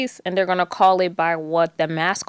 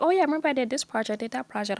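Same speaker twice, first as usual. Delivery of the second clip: breezy quote; 5 semitones higher, 6 dB quieter, much faster than usual. Retold or imitated. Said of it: "they're like".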